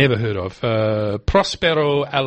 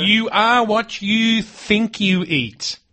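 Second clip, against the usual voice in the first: high, very slow, portentous delivery of an author's line; grand quotation; 10 semitones higher, much slower than usual. Retold or imitated. Quoting Tom Robbins on the radio, in a slow, portentous voice. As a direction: intone it like a sage handing down wisdom. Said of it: "he said".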